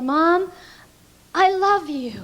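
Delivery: high, loud cry across the room; teen girl yelling her love into the microphone; yelled out. Retold or imitated. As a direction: shout it out to her mother as loud as she can. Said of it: "and as loud as she could, she yelled".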